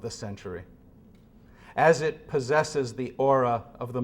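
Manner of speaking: measured, grave reading of a philosophy text, often falling soft at line ends; solemn reading. Acted. Speaker reading Sloterdijk's words to a hushed room, grave and measured. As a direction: read it like a sermon, unhurried and heavy. Reads Sloterdijk passage aloud.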